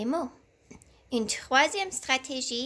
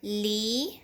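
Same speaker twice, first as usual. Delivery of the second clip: "Livre" cut into slow separated syllables; sounding out "Livre" with a lift at the end. Shown as a demonstration. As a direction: chop "Livre" apart for a young reader. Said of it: "Coupons la syllabe".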